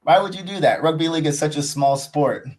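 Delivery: acted-out indignant objection; retold protest. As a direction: plead indignantly, as in a retold argument. Acting out own protest to rival fan.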